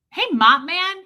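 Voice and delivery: high, loud imitated call; suddenly animated. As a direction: summon someone briskly, with a flourish. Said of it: "suddenly just, like, animated".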